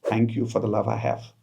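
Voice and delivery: soft grateful affirmation. Shown as a demonstration. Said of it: "by saying these three statements".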